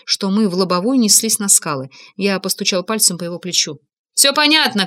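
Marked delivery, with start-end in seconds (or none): 4.1-4.9 high, moderately raised voice; mild narrated shout; calling out. A narrator's reading. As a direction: call it out to the pilot. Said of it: "крикнул я".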